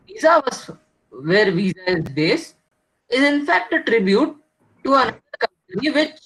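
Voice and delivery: choppy dropouts like a failing call; corrupted glitchy audio. Real, not acted. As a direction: voice breaking up on a bad line. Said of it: "Your voice was breaking in between".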